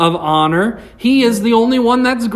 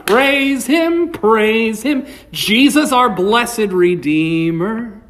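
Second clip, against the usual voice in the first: with some oomph; 2 semitones higher, slower than usual. Shown as a demonstration. Preacher showing the congregation praise with oomph. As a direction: sing it like you mean it. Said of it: "Put some oomph behind it".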